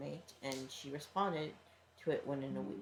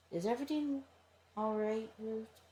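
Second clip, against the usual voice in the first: concerned roommate voice; 7 semitones higher than usual. Acted. Roommate asks suspiciously.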